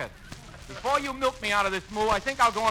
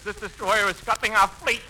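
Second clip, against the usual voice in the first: laughing. Real, not acted. Jack cracks up at joke.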